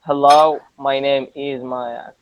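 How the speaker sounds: "Hello," then a short stop, "my name is Maya" slow; pause after Hello. Shown as a demonstration. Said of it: "Hello," you stop".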